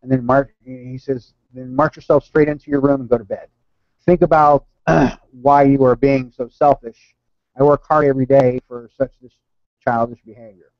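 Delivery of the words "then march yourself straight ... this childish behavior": retold telling-off, a touch louder; furious father. Father sends son to bed, mildly furious scolding. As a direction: send the child off with mild anger. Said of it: "got furious".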